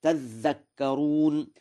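تذكرون slowed, the t merged into a double dh; doubled dhal. Shown as a demonstration. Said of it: "فأدغمت التاء في الذال فصارت". (تذكرون بإدغام التاء في الذال)

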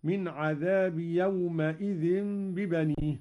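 يومئذ with mim on fatha. Shown as a demonstration. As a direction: say يومئذ as «يومَئذ». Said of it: "بفتح الميم هكذا". (يومئذ بفتح الميم)

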